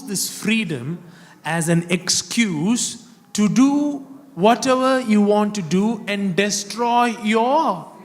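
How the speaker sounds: punchy preacher's reading with weighted key words; insistent pulpit delivery; emphatic scripture preaching. Acted. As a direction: declaim the verse to the congregation.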